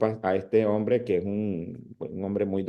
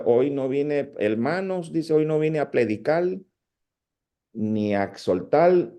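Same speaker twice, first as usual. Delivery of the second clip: put-on light Dominican accent, R turned into L in "hermanos" and "predicar"; playful Dominican preacher accent, "elmanos"; 4 semitones higher than usual. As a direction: imitate a Dominican preacher swapping R for L. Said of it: "como ellos se comen la L".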